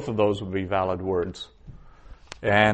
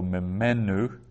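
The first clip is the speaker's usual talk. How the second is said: "mimenu" stressed on "me"; stress on second-last syllable; slower than usual. Shown as a demonstration. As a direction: slowly, lean on the "me" in "mimenu". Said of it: "there the accent's under the second last syllable".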